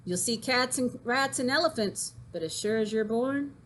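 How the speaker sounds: put-on lively sing-song reading of a rhyming poem to kids; poem recitation. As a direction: recite it with bounce and rhythm for the class. Teacher recites unicorn poem aloud.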